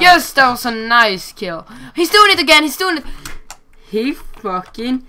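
high, loud, outraged gamer yell; excited shout. Real, not acted. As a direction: yell as the hacker does it again. Hacker strikes again mid-game.

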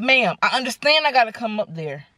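measured, stern retort. Retold or imitated. Customer answering a pushy receptionist, stern. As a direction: firmly put her in her place, mildly. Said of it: "I'm stern now at this point".

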